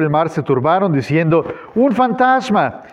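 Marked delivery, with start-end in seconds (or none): 1.7-2.8 raised, drawn-out narrated cry; higher and slow, a touch of fear; fearful cry, read aloud. A narrator's reading. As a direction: read it as a mildly alarmed cry. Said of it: "dieron voces de miedo".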